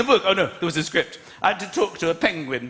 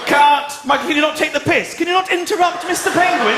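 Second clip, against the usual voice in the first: annoyed director; 6 semitones higher than usual. Retold or imitated. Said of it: "director shouting on set".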